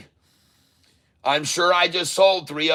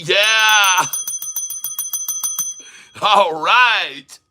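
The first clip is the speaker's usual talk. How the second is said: real victory cheer; celebratory whoop; 5 semitones higher, much slower than usual. Real, not acted. Celebrating profits on stream.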